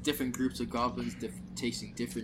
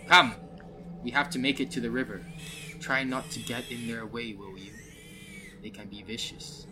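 a hint of a dwarf, loud at first, settling down; lightly voiced dwarf; 5 dB louder than usual. Dwarf guide warns party about goblins, lightly voiced dwarf. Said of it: "the dwarf says".

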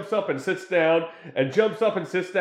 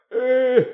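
mock grunt; 8 semitones higher, 7 dB louder than usual. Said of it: "even if they're like".

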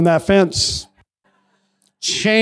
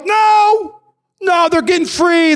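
the enemy's voice; 8 semitones higher, slower than usual. Retold or imitated. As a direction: voice the frantic enemy. Preacher voicing the enemy.

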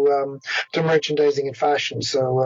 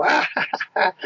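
high mock crowd "ah-ha-ha"; imitated crowd reaction; 4 semitones higher than usual. Rival supporters reacting to the replayed hit, imitated crowd reaction. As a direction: mimic the rival fans' high-pitched outburst. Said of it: "'cause the Hallam side, I'll go".

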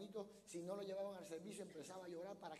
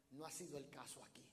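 whispered aside; 5 semitones lower, 7 dB quieter, faster than usual. Real, not acted. Confiding aside to the congregation.

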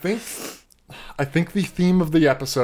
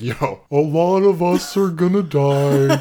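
laughing; 3 dB louder than usual. Retold or imitated. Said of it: "Angel's gonna be like".

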